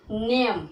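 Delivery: नेम with the ए held a little long; long vowel. Shown as a demonstration. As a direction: stretch the ए in नेम, no final e sound. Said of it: "उसका उच्चारण थोड़ा लंबा कर देते हैं". (नेम, ए को थोड़ा लंबा खींचकर)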